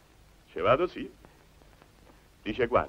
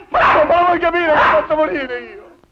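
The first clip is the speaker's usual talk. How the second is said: high, loud, strained protest; high loud wail of protest; exasperated outburst; 14 semitones higher, 8 dB louder than usual. Acted. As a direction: shout it out, fed up and scared.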